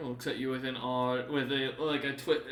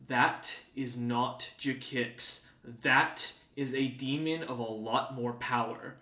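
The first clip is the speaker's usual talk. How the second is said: voice of Lord Zebril; slower than usual. Acted. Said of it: "a voice in your head, from Lord Zebril".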